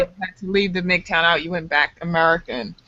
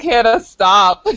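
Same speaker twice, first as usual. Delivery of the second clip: mock scolding; 6 dB louder, slower than usual. Imitating friend telling her off.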